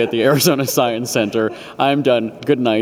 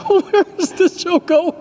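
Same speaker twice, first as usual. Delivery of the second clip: bleep censor; slower than usual. Real, not acted. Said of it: "I just got bleeped".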